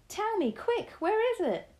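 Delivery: put-on high, loud, urgent boy's plea; impatient cry. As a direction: beg for the answer right now. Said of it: "I cried".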